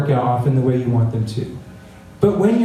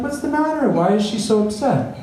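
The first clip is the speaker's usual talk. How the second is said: worried grandparents; 5 semitones higher than usual. Retold or imitated. Grandparents asking about crying grandchild.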